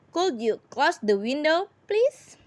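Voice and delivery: please lifted high in a polite rising ask; polite request. Shown as a demonstration. Teacher models a polite request to her class, please rising high. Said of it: "Bolehkah atau dapatkah kamu menutup jendela itu?".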